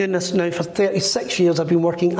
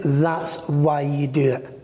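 lower, slow inner voice; voice in his head; 5 semitones lower, slower than usual. Retold or imitated. Spirit voice telling the medium why he does it, low and slow. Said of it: "I heard a voice in my head saying".

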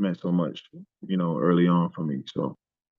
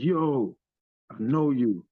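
higher, drawn-out mock greeting; excited recognition; 6 semitones higher, much slower than usual. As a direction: imitate someone spotting a familiar face. Retelling Tracy Morgan recognising him.

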